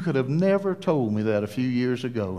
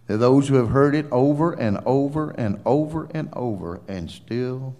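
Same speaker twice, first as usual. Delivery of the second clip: low, measured pulpit prayer with swells; earnest closing prayer; 3 semitones lower than usual. Real, not acted. Preacher praying to Heavenly Father for the unsaved, earnest. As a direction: pray reverently, swelling on key phrases, then dropping.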